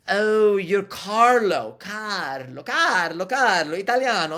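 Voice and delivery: hammed-up delight at guessing Italian; imitated excited guesser. Older man in church line guessing he is Italian, mock excited.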